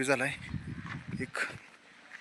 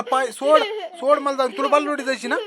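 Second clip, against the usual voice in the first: laughing; 10 semitones higher, 6 dB louder than usual. Real, not acted. Child clinging to his leg.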